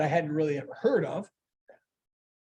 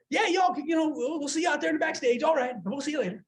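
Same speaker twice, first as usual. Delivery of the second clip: lightly imitated Southern accent, pitched up; Jeff Foxworthy; 6 semitones higher than usual. Comedian seeing visitors off backstage, light Southern accent. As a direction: sign off with a Southern twang. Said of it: "it was a Southern accent".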